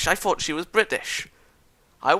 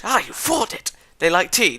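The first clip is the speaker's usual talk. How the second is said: gleeful Kenji; 6 semitones higher, 4 dB louder than usual. Acted. Kenji triumphant about stereotype.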